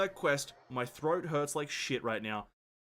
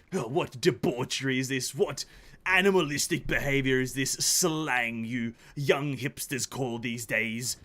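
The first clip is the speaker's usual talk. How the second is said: a mild, scandalised upper-class English tone; lightly mock-posh English disapproval; posh British gentleman. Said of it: "posh gentleman".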